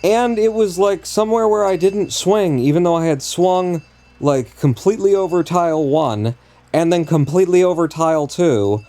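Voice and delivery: high, loud, incredulous rant; outraged disbelief. Real, not acted. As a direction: pitch up and protest the unfair death. Raging at an unfair death.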